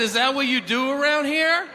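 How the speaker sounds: high, rising puzzled question; acted incredulity. Customer questioning the store man's business, high incredulous question. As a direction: question him in mock disbelief.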